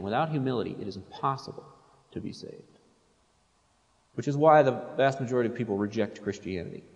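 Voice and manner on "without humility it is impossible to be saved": softer, fading to a hush on to be saved; quieter emphatic repeat. Shown as a demonstration. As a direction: drop the voice to drive it home. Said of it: "I'll say that again".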